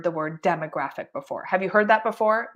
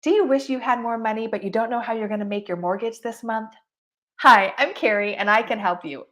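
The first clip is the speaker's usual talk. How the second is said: cheesy pitch; 2 semitones higher than usual. Shown as a demonstration. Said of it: "Do not say".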